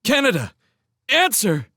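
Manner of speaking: high, loud demand; urgent call. Acted. Kent shouts for Showen to answer.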